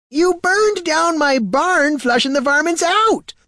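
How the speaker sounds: slow, outraged rustic complaint; an old farmer furious at the damage; high, loud, indignant old farmer. Acted. Farmer scolding the warrior over his burned barn, outraged.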